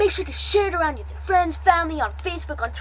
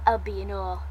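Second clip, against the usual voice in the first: unvoiced soft whisper; 6 semitones lower, 6 dB quieter, faster than usual. Real, not acted. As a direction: breathe it as a whisper. Whispered outro line.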